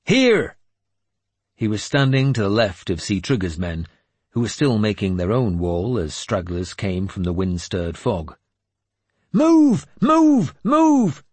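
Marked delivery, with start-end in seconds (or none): 0.1-0.6 high, loud one-word battle shout; bellowed call. A narrator's reading. Warrior gathering men into the shield wall, bellowing. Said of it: "Finan bellowed". 9.3-11.2 high, loud, repeated battle command; urgent yelling. A narrator's reading. Young warrior driving men into their ranks, yelling. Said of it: "my son was yelling".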